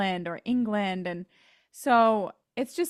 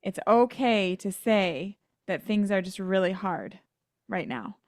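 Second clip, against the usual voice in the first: gentle, caring; 2 semitones lower than usual. Retold or imitated. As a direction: let her down gently with compassion. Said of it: "she's just like".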